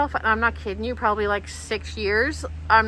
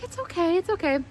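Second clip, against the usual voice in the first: high-pitched soothing imitation; soothing nurse; 8 semitones higher, faster than usual. Nurse calming crying patient, high soothing imitation. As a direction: comfort someone upset in a high voice.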